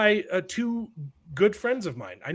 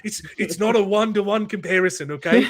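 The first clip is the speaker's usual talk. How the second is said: imitated British band accent; 3 semitones higher, 3 dB louder than usual. Jesus explains the comparison to Mary, in a mock British accent like a famous band's. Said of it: "they're all talking in their British accents".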